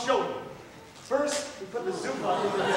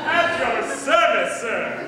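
showy announcement; 5 dB louder, much slower than usual. Acted. Servant presents himself to master.

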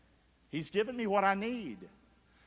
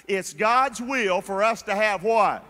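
slow, loud call for the congregation; loud preacher's call; call and response; 7 dB louder, slower than usual. Shown as a demonstration. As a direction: draw out the question so they answer. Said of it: "let's say it one more time".

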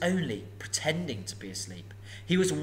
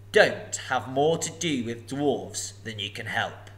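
a huge dragon toying with a thief; booming sly dragon; menacing dragon; 3 semitones higher, 5 dB louder than usual. Acted. Dragon speaks.

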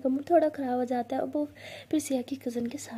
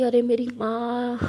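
mock exasperation; 6 dB louder, slower than usual. Pleading apology in quarrel.

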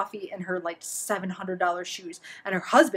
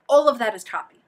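"all" punched louder, falling tune; stress on ALL; 2 semitones higher, 7 dB louder than usual. Real, not acted. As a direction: hammer the word "all". Main point repeated with emphasis.

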